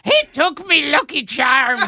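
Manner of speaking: laughing mock Irish accent. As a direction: ham up a leprechaun Irish accent. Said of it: "DiCaprio does an accent".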